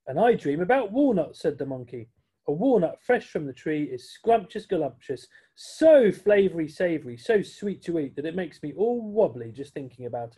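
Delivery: lick your lips over walnuts; dreamy monkey. Acted. Monkey tells friends of walnut dreams, savouring.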